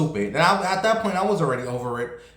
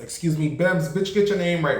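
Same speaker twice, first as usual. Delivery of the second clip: sassy correction; 4 semitones higher than usual. Retold or imitated. Corrects own name, sassy.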